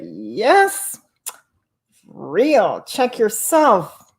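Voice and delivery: slow, rising slogan; quoting Coco. Retold or imitated. Repeating Coco's exact words for the chat, slow. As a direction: draw out "check yourself". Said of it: "She said".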